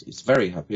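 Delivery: "very" with a true V; correct V sound. Retold or imitated. Coach corrects German client, true V in "very". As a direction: teeth on lip for the V in "very". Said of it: "I said".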